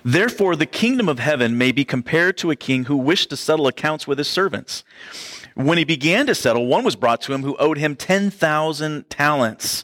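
a touch of the preacher's reading voice; scripture reading. Acted. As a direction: read the passage to the congregation. Reads the parable aloud.

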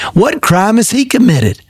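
sharp, high demand of the governor. A narrator's reading. Pilate demands an answer from the crowd, sharp and high. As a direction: fire the question back high. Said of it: "Pilate demanded".

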